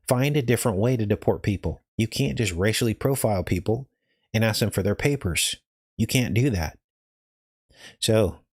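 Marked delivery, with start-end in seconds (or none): 6.0-8.4 audio cutting out; broken up, glitchy stream sound; corrupted glitchy audio. Real, not acted. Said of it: "sound is cutting out".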